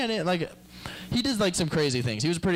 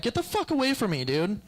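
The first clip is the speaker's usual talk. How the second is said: mock recoil; 6 semitones higher than usual.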